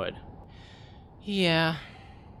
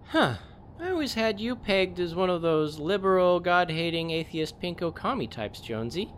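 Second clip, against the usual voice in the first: mocking jab; 7 semitones higher than usual. Sarcastic jab at Jonesy.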